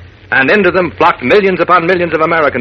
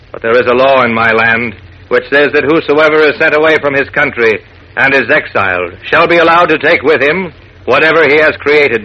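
low, measured genie voice; solemn voice of an ancient genie; 3 semitones lower than usual. Acted. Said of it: "The genie said".

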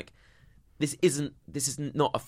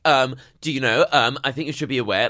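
sanctimonious tone; 4 semitones higher, 10 dB louder than usual. Retold or imitated. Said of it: "sanctimonious tone".

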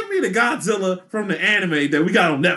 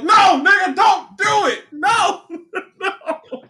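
pleading yell; 10 semitones higher, slower than usual. Retold or imitated. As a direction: beg them not to, hammed-up. Retells pleading reaction to internet post.

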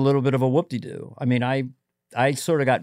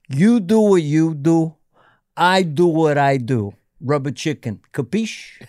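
friend's catchphrase; 3 semitones higher, 4 dB louder than usual. Retold or imitated. Doing a friend's catchphrase for the host, slow imitation. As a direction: imitate a buddy laying down his motto. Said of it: "his catchphrase was this".

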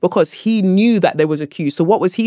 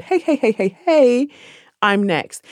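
calling out; 7 semitones higher, slower than usual. Retold or imitated. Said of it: "And I said".

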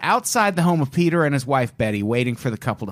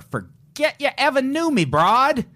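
tough gangster moll; 11 semitones higher than usual. Retold or imitated. Gangster quote in true crime.

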